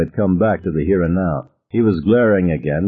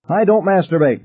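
high, protesting yell; acted outcry, pitch jumping up; 11 semitones higher than usual. A narrator's reading. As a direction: yell a denial in embarrassment. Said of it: "he yelled".

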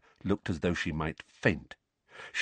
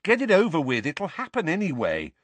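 higher, insistent voice; urging; 9 semitones higher than usual. A narrator's reading. Boy to his frightened aunt, urging. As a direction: push her to get on with it. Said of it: "Harry urged her".

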